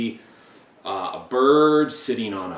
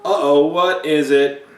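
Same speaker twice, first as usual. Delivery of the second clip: suspenseful reading; 4 semitones higher, 8 dB louder than usual. A narrator's reading. Dramatic read-aloud, building suspense.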